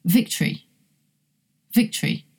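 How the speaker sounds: "Victory" with strong VIC and swallowed O; stress on first syllable. Shown as a demonstration. Teacher repeating an example for learners, first-syllable stress. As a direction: hit VIC in "Victory", reduce the middle to schwa. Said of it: "Can you hear how one of the syllables".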